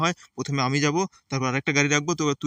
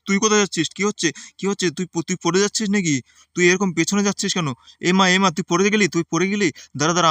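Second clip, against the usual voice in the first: high, loud startled cry of alarm; alarmed shout; 4 semitones higher, 4 dB louder than usual. Acted. Uncle sees his nephew fall off the train, alarmed shout. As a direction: yell in sudden panic as he slips.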